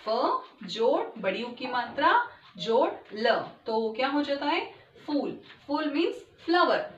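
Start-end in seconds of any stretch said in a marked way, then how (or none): 0.0-3.4 slow spelling out. Shown as a demonstration. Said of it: "फूल को हम कैसे split करते हैं".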